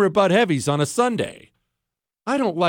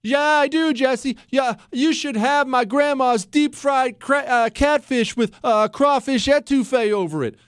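lightly voiced listener, pitched up; mock a fish fan defending grandma's cooking; imitating a fish lover; 8 semitones higher than usual. Host mimics a caller who defends fish, higher. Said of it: "I know what you're saying right now".

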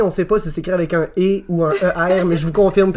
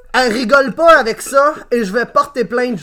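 laughing read; 4 semitones higher than usual. Shown as a demonstration. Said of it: "re-reading the review".

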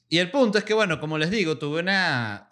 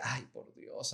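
much softer, hushed plea; muttered prayer; 14 dB quieter, slower than usual. Retold or imitated. Nervous applicant praying in the visa line, hushed. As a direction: pray under your breath.

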